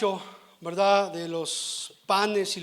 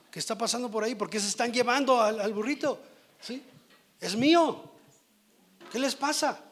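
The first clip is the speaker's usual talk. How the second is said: owner protesting, climbing higher to a cry of Es mío; mock outrage at strangers untying his donkey; indignant donkey owner; 4 semitones higher than usual. Donkey owner confronting the disciples, hammed-up indignation.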